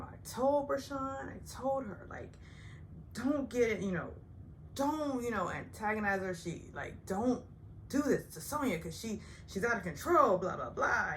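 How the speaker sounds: mock Ramona voice. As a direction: lightly imitate a fussy warning. Ramona's warning retold as quote.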